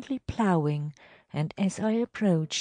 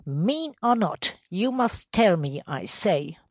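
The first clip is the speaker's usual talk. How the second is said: higher, firm demand; insistent order; 4 semitones higher, 5 dB louder than usual. Acted. Superintendent makes the elder repeat the curses, insistent. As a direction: overrule him and insist.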